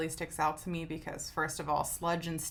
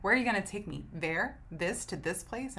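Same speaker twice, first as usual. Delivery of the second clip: emphatic, upset questioning; 3 semitones higher than usual. Acted. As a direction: act out upset, insistent questions. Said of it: "it sounds really emphatic and upsetting".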